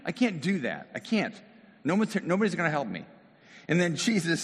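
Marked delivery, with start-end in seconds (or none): 0.0-3.0 emotional rant. Acted. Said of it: "feel the emotion there".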